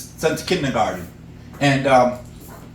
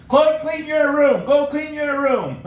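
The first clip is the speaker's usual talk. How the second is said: higher, slow parental order; scolding parent; 9 semitones higher, slower than usual. Retold or imitated. Parent ordering a lazy kid to clean the room, higher and slow. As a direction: order it slowly like a nagging parent.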